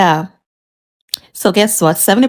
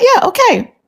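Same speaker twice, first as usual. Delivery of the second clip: sarcastic okay. Retold or imitated. High sarcastic retort.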